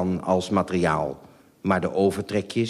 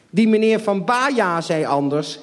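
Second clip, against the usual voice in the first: breathless, higher and louder; panting; 12 semitones higher, 5 dB louder than usual. Acted. Mother panting at father while dragging the sofa. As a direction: gasp it out between breaths. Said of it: "hijgde mijn moeder".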